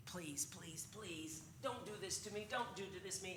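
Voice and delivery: hushed, pleading imitation of begging; softly plead, as if begging for mercy; retold begging. Debtor begging the master for mercy, hushed retold plea. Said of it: "he starts begging".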